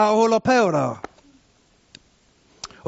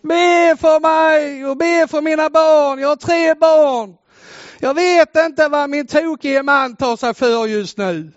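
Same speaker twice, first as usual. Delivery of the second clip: a lightly voiced frantic woman, higher and a bit louder; mild mock panic; 5 semitones higher, 4 dB louder, slower than usual. Preacher retelling a battered wife's phone call, mildly panicked. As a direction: retell her cry for help with some urgency, not a real scream. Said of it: "hör jag detta skrika".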